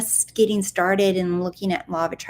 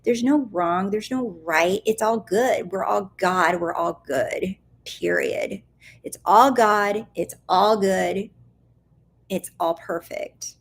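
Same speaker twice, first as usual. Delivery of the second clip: gentle reassurance. Retold or imitated. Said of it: "And I'm like".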